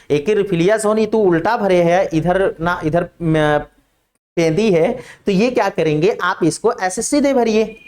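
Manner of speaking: students teasing sir in lightly put-on rural dialect, slow in places; mock village student. Students scolding sir over the pen, in light mock rustic dialect. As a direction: imitate a student chiding the teacher in a hint of rustic Hindi. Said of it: "तो आप लोग बोलेंगे".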